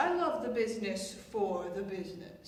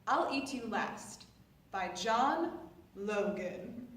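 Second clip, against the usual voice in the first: measured, slightly softer narration; play introduction; 4 dB quieter than usual. A narrator's reading. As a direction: read out a programme note to introduce the play. Introduces the play, reading a summary.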